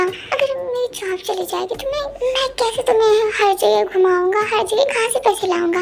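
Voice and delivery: worked-up, pleading protest; agitated justification. Acted. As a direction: defend yourself in a lovers' quarrel. He argues his excuse.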